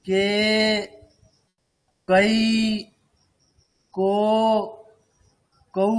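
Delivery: "কে, কৈ, কৌ" each held long; "কৈ" and "কৌ" as full gliding diphthongs; long vowels. Shown as a demonstration. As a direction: draw out each syllable, with pauses between. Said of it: "দীর্ঘ হলে বেশি সময়".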